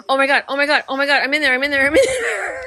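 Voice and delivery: quick mock panic climbing into laughter; retold panicked yell. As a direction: re-enact a frantic yell without full volume, pitch rising at the end. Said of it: "I started yelling at this Heather".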